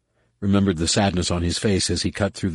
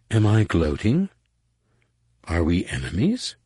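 honestly puzzled. Acted. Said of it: "sounding honestly puzzled".

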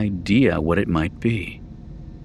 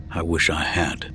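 glum; 5 semitones lower, 5 dB quieter than usual. A narrator's reading. Gloomy pilot replies.

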